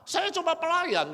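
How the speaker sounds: Paul calls himself a mere servant; humble servant. Retold or imitated. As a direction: say it as a lowly servant.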